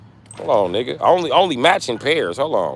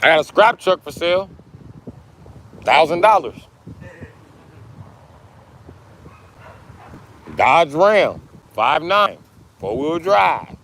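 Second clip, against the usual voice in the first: hawking; 6 semitones higher, 3 dB louder than usual. Acted. Announcing truck for sale.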